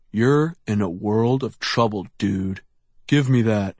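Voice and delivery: bully holding back a shout; through gritted teeth. A narrator's reading. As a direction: growl through clenched teeth. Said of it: "he said through gritted teeth".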